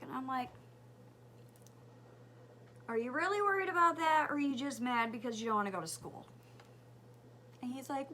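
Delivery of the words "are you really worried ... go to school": challenging retort. Retold or imitated. Mom challenging son, fast.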